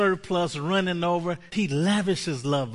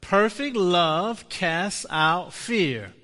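slow proclaimed confession; 4 semitones higher, 4 dB louder, slower than usual. Shown as a demonstration. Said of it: "Say this with me".

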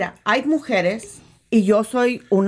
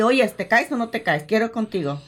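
mildly brash propositioning woman; a hint of a bold woman hitting on him; blunt come-on; 2 semitones lower than usual. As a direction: play a forward pick-up line. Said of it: "te habla así".

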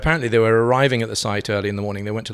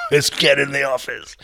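1 hint of Piers; 6 semitones higher, 4 dB louder than usual. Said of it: "phone my boss".

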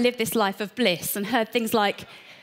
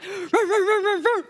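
dog bark imitation; 9 semitones higher than usual. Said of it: "So the dog's like".

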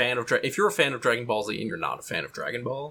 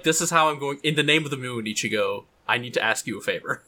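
put-on bright magical girl. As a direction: ham up a magical girl transformation. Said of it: "She's like".

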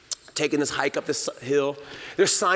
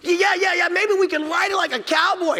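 put-on very high, loud giddy child; a son imagining riding a bear like a cowboy; excited kid voice; 14 semitones higher, 4 dB louder than usual. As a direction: squeal like a thrilled little boy.

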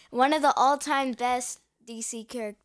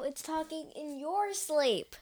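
Your pushed higher as a correction; stress on Your; 3 semitones higher, 5 dB quieter than usual. Real, not acted. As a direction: correct them, leaning on Your. Corrects the parent's wrong title.

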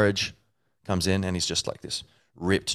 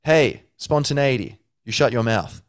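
louder, slow sharp rebuke; mock scolding; 5 semitones higher, 5 dB louder than usual. Honesty scolding spontaneity, hammed-up. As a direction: snap at him to stay out. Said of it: "honesty's like".

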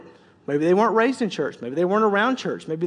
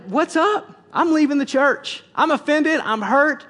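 mock offended; 3 semitones higher, 4 dB louder than usual. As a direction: play it up like you're leaving the church over it. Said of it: "I was just like".

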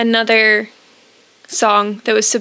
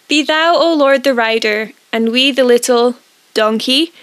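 holding back laughter. Real, not acted. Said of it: "it makes me laugh".

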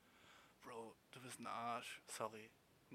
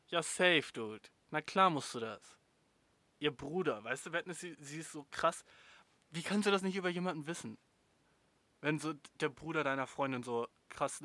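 much louder, indignant rant; host scolding the letter writer, much louder and indignant; outraged; 3 semitones higher, 9 dB louder than usual. Real, not acted. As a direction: tell him off with force.

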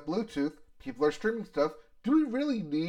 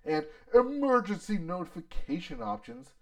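Ford CEO voice. Retold or imitated. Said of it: "Is this your Ford C E O voice?".

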